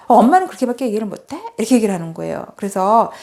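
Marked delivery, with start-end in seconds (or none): 0.1-1.4 quick retold huff of annoyance; sudden anger. Daughter answers mother's lukewarm praise, mildly acted sudden anger. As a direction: imitate a child snapping back fast. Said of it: "갑자기 화를 내요".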